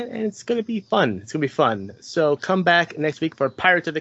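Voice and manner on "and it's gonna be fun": squeaky high voice; high-pitched. Pretend. Repeats line in two pitches.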